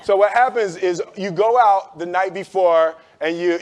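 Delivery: usual speaking voice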